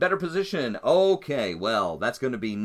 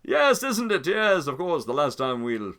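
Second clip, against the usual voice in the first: silky villain Simon; 3 semitones higher than usual. Acted. Simon luring Anselm aboard the Anastasia, sugary menace.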